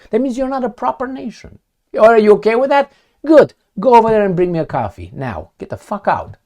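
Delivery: brisk condescending orders; mock bossy West. West ordering Russia around, mock bossy. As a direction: boss him around like a servant. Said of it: "and I am the West".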